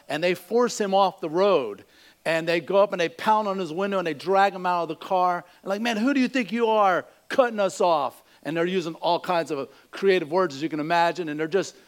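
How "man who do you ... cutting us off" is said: mildly heated mock outrage; furious bikers. Biker confronting a driver who cut them off, mock furious. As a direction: act out an indignant confrontation, lightly. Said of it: "just furious at him".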